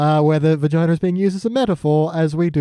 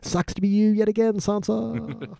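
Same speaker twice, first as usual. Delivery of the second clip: higher, trailing off softly; mock sympathy, raised and fading; Littlefinger impression; 6 semitones higher, 5 dB quieter than usual. Littlefinger taunting Sansa after her release, mock sympathy. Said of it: "Littlefinger rocks up to him and goes".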